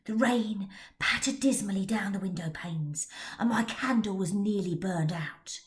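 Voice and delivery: hushed, spooky tale-telling; spooky storybook voice; storyteller reading. A narrator's reading. Narrator telling a Frankenstein tale.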